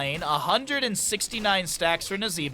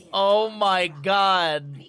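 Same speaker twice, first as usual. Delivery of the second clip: stunned; 4 dB louder, much slower than usual. Real, not acted. Stunned after the play.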